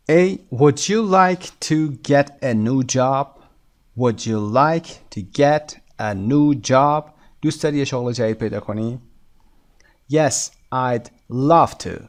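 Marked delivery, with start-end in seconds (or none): 0.1-7.0 slow model reading, leaning on "like", "new" and "job"; stressed key words. Shown as a demonstration. Teacher modelling a dialogue question for learners, stressed key words. 10.1-12.0 slow model answer with "love" punched; stress on LOVE. Shown as a demonstration. Teacher modelling the answer about a new job, stress on "love".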